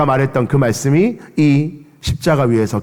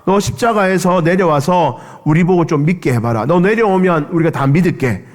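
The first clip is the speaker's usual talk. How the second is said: mocking tease; 3 semitones higher than usual. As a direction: goad the king to come down. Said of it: "사람들이 놀리는 거예요".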